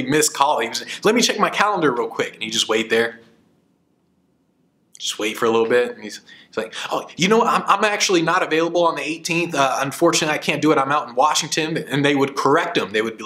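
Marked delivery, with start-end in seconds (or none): 1.0-2.3 breezy stalling. Retold or imitated. Retold stalling line. 6.9-11.8 feigned busy regret. Retold or imitated. Retold feigned decline.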